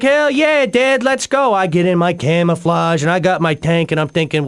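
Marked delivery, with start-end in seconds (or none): 0.0-1.5 put-on high, eager kid's cheer; excited kid. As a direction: bounce with eight-year-old excitement. Kid answering dad's offer to play.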